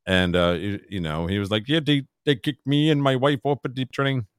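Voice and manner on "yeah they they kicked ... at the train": put-on a failed try at an African accent; lightly put-on African accent, quickly dropped; attempted African accent. Host quoting the interviewed man in a weak African accent. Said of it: "I can't do the accent".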